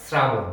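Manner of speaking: শ্রাবণ drawn out slowly, low, as srabono; slow model pronunciation. Shown as a demonstration. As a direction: spell out শ্রাবণ slowly for parents. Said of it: "অভিভাবকদের জন্য আমার, আহ, বলা". (অভিভাবকদের জন্য ধীরে "স্রাবোন" উচ্চারণ)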